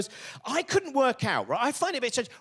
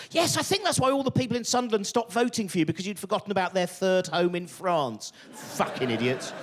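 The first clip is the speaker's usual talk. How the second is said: exasperated, falling away in disgust; angry rant. Real, not acted. Comedian answers Labour's excuse, angry sarcastic rant. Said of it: "Oh, good, I'm angry again".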